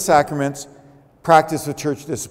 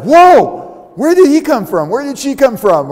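sudden loud high startled cry; jolted, as if a car just appeared; startled driver; 7 semitones higher, 6 dB louder than usual. Retold or imitated. Preacher acting out a startled driver, loud and high.

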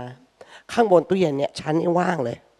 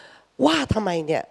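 defensive quarrel; 3 semitones higher, much slower than usual. Retold or imitated. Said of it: "ทะเลาะด้วยประโยคที่ว่า".

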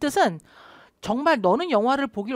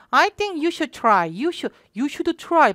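slow drill; 4 semitones higher, much slower than usual. Shown as a demonstration. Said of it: "이렇게 자꾸 연습해 주세요".

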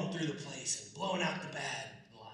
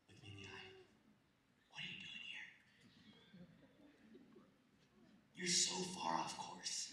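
hushed stern parent; 11 dB quieter than usual. Retold or imitated. Good parent quietly scolds the kid off course.

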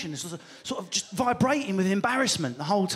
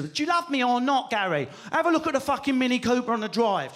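brash Essex council-estate demand, pitched up; Essex accent; 4 semitones higher than usual. Acted. Essex partner demanding love from Gary, brash Essex accent. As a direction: nag your lover in broad Essex. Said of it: "from a council estate in Essex".

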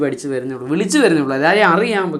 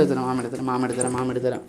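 soothing reassurance; 5 semitones lower, 10 dB quieter, faster than usual. Real, not acted. Adult promising to pick up a toddler, soothing. Soothing child who wants carrying.

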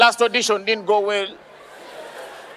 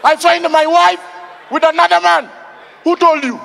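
higher, louder mock outrage; mock angry husband; 5 semitones higher, 5 dB louder than usual. Comedian acting the husband who finds his wife, hammed-up anger. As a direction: play it up as a cheated husband.

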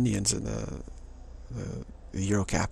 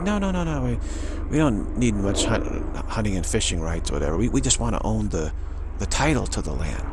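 insistent; 5 dB louder than usual. Retold or imitated. Capitalists insisting.

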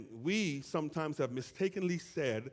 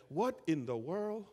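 amazed; 3 semitones higher than usual. Retold or imitated. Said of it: "as people heard their dialect".

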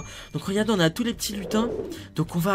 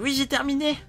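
high elf voice; 5 semitones higher than usual. Acted. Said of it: "une voix un peu plus aiguë".

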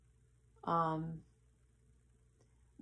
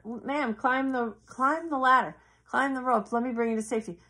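loud, higher call to climb up; urgent rescue call over the noise; rescuer calling out; 4 semitones higher, 3 dB louder than usual. Retold or imitated. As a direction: shout up to her from the helicopter.

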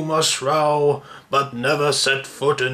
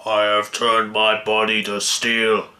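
barbarian; 4 semitones lower than usual. Acted. Brute boasts of steel body.

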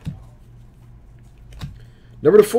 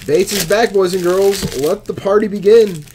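hype announcement; 2 semitones higher, 4 dB louder than usual. Acted. Hype opener after a return.

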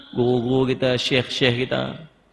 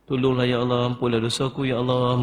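pleading lament. Shown as a demonstration. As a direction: beg forgiveness, stretching each "ya Allah". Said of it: "Merayu, merintih dengan Allah".

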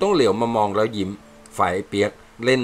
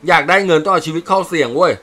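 voiced soldier, flustered; 6 semitones higher, 6 dB louder than usual. Soldier mixes up proverb.

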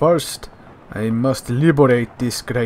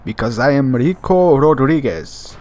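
put-on proud Latin accent; 5 dB louder than usual. Punchline of self-intro.

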